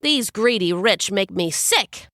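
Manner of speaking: quick, sarcastic griping; fast indignant rant. Acted. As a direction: rant fast about the stingy rich. Hermes rants about the rich.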